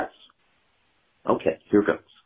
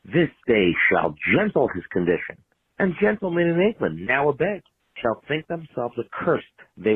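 grand theatrical speech delivery; Shakespeare recitation. Pretend. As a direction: declaim it like a stage actor. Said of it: "allow me to quote the Saint Crispin's Day speech".

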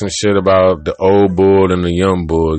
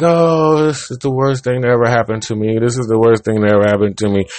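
comic despairing bird voice, pitched up; whiny bird; 2 semitones higher, faster than usual. Retold or imitated. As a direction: moan like a self-pitying little bird. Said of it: "He's like".

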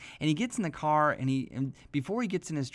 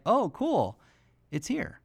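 put-on mildly excited kid; 8 semitones higher, 4 dB louder, much slower than usual. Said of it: "Like, he was really calm".

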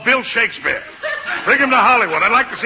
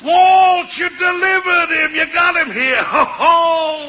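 excited shout; 6 semitones higher, slower than usual. Acted. Boss thrilled at new star.

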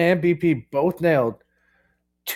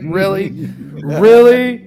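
exasperated really, louder; 4 semitones higher, 7 dB louder, slower than usual. Retold or imitated. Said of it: "He's like".

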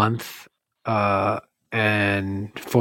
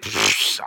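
dismissive pfft; 5 semitones lower, 6 dB quieter than usual. Retold or imitated. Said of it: "I was like".

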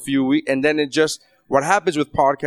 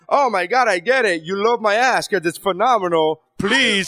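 humble brag; 4 semitones higher than usual. Retold or imitated. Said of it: "it's like a humble brag".

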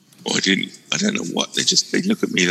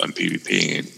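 fading in and out. Real, not acted. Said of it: "you're fading in and out".

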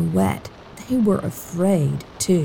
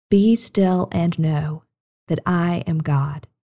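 slow call and response; 2 semitones lower, slower than usual. Shown as a demonstration. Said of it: "Say it with me".

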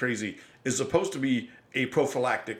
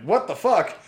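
retold outraged yell; 7 semitones higher, 6 dB louder than usual.

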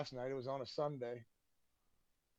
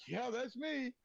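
higher, cocky confirmation; playing along as the star; smug celebrity pose; 8 semitones higher, slower than usual. Posing as a famous singer.

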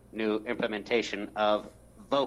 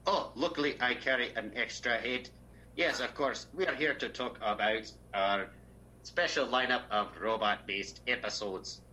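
lightly voiced robot; a hint of a deadpan robot. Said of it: "if we held these voices the entire time".

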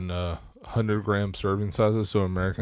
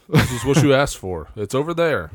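a bit louder, fed-up dad pointing; exasperated parent; 4 semitones higher, 7 dB louder than usual. Retold or imitated. Dad sending the kid to his dinner, exasperated. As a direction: say it like a tired parent.

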